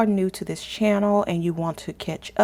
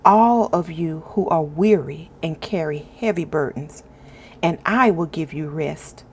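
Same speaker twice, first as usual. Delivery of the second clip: scripture reading. Acted. Host reads Matthew aloud to her viewers, reverent scripture reading. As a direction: read each verse with calm reverence, pausing between lines.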